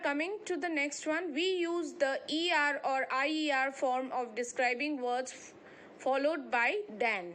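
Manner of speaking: slow, deliberate reading of the rule; measured classroom read-aloud; textbook reading. Acted. Reads the next textbook rule.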